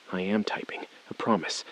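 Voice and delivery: whispered, hurried reassurance; whispering while typing; tense whisper. Acted. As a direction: breathe it out under pressure. Hostage caller demands typing.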